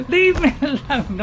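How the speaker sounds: exasperated plea after a laugh; losing it, laughing. Real, not acted. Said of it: "sorry, I'm losing it. I'm panicking".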